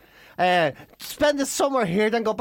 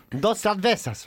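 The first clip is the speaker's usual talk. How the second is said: Spanish words in an imitated local accent; put-on Spanish accent; slower than usual. Shown as a demonstration. What you have to say in Spain, put-on Spanish accent. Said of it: "make us put their accent on".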